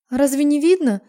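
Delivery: high, loud squeak of a shaken voice; squeaky shaken voice. Acted. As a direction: squeak it out, voice not yet back. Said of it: "Пищу, так как голос ещё не пришёл в норму".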